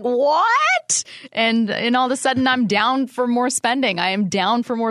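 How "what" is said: squeaky high amazed gasp; amazed what. Retold or imitated. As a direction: shoot up high in disbelief. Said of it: "I was like".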